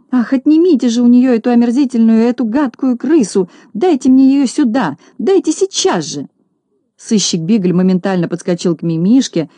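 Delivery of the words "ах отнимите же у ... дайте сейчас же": high, loud hysterical demand; shrill lady's cry. Acted. Lady demanding the rat be taken away, high loud cry. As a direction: shriek it like a disgusted rich lady. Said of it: "закричала".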